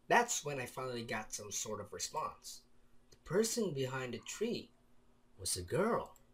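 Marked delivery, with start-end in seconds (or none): none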